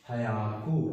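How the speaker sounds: हयाकू said slowly, syllable by syllable, as "hyaku"; teacher drills हयाकू, each syllable clear; Japanese hundred. Shown as a demonstration. Teacher modelling हयाकू for students to repeat. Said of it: "सौ को क्या बोलेंगे?".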